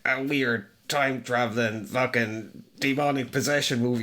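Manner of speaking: smug know-it-all voice; lightly mocking a pretentious critic; inner asshole voice. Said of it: "What's with the voice?".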